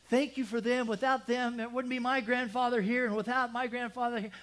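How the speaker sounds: high, loud, tearful-sounding thanks; dramatic prayer. Retold or imitated. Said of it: "he's just really dramatic".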